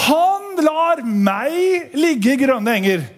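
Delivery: scripture drawn out very slowly; slow psalm recital. Acted. Preacher reads Psalm 23 aloud, slow recital. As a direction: savour each word of the psalm.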